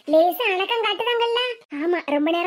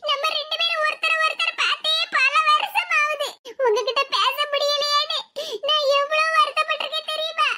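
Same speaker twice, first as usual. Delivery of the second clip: high-pitched, emotional pleading tone; acted sorrowful voice, pitched high; plaintive reunion lament; 5 semitones higher than usual. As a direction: pour out years of longing. Patient laments years without seeing relative.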